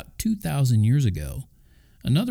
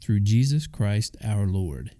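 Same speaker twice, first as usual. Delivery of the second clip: quoting Paul; slower than usual. Retold or imitated. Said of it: "He said".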